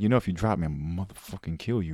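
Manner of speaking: low, soft threat into an ear; murmured mock threat. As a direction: keep it low and hushed, menacing in jest. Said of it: "breathe in its ear or whatever".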